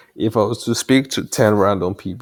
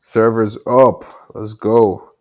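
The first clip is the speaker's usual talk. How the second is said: excited; 2 semitones higher, 7 dB louder, much slower than usual. Real, not acted. Server finally starts.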